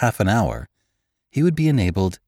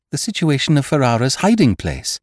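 higher, louder eager outburst; excited cry; 8 semitones higher, 5 dB louder than usual. A narrator's reading. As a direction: blurt it out as the idea clicks. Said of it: "cried his son excitedly".

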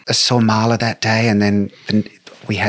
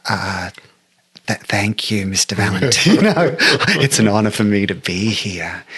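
flustered. Retold or imitated. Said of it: "And I was just like".

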